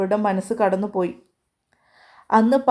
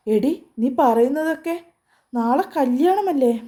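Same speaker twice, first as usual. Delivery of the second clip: distressed; 5 semitones higher than usual. Acted. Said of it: "ആമിക്ക് സങ്കടം വരുന്നു".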